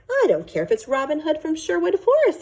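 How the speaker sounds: a dad losing patience; exasperated father. Acted. Father scolds about gecko.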